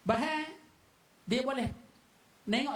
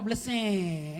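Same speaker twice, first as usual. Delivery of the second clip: radio static word; 3 semitones lower, much slower than usual. Shown as a demonstration. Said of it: "Dia bunyi beleseng".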